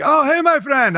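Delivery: high, bright mock greeting from the dorm guy; cheery friend imitation.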